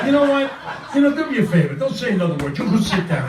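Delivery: cutting in, high-pitched and exasperated. Real, not acted. Comic cuts off the man introducing him, exasperated.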